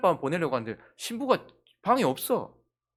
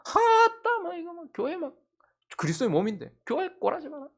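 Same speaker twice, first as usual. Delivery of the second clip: hammed-up exasperated complaint; mock grumbling; 9 semitones higher than usual. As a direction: imitate a churchgoer moaning. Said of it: "원망하고".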